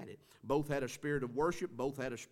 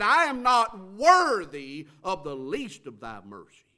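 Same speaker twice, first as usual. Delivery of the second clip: quoted humble prayer; 4 semitones higher, 13 dB louder, slower than usual. Retold or imitated. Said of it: "He said".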